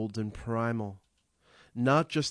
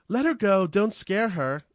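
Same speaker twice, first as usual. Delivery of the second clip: high, loud urgent shout; orderly shouting; 9 semitones higher, 7 dB louder than usual. Acted. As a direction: yell it across the hall to stop her.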